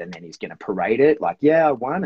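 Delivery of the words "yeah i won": higher, louder victory boast; mock triumph. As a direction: lightly act a dog proudly celebrating a win. Voices dog parading its prey.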